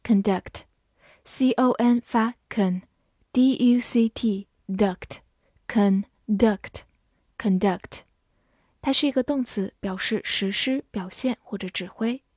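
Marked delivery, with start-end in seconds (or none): 1.3-8.0 slow, letter-by-letter spelling; slow classroom spelling. Shown as a demonstration. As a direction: spell it out slowly for learners. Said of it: "x0.4 spelled out slowly".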